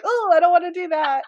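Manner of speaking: mock reluctant. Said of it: "I'm like".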